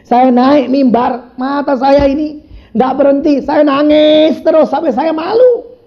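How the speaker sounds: high, slow, drawn-out testimony; fervent preaching. Real, not acted. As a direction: stretch the words out with preaching fervor. Preaches at full force. (khotbah lantang berapi-api, diucapkan lambat)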